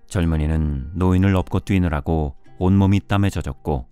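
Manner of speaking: ordinary delivery, nothing marked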